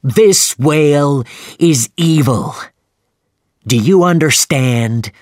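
loud, high, slow furious shout; angry shout. A narrator's reading. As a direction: shout right into Starbuck's face. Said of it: "he shouted in Starbuck's face".

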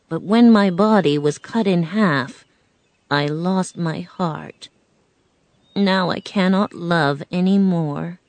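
a hint of a metal man mourning his lost heart; Tin Man's tale. Tin Man telling Dorothy his sad story, gently voiced.

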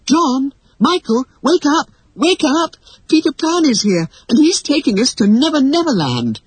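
high, urgent, excited calls; excited girl calling them awake. A narrator's reading. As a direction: rouse sleeping brothers with thrilling news. Wendy calls her brothers awake.

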